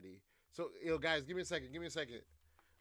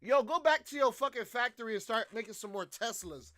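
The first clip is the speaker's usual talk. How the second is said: mock Trump demand; 4 semitones higher than usual. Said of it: "Nigga said".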